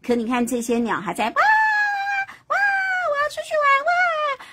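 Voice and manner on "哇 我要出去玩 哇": put-on high, loud wailing child voices; bratty suns crying out. The suns squealing at play ignoring Houyi, high childish wail.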